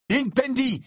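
high, forceful incantation; cried-out curse. A narrator's reading. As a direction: hurl the curse in a shout. Harry starts a curse.

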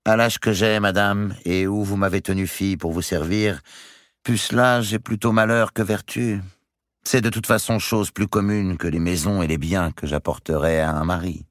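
high-pitched, controlled servant's retort; insolent lady-in-waiting. Acted. Béatrice retorts to countess.

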